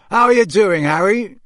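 big, lifted welcome; hearty greeting. A narrator's reading. Charlie greets Harry heartily.

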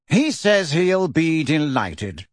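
slow, bored drawl. Acted. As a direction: report back utterly uninterested. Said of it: "said a bored voice behind".

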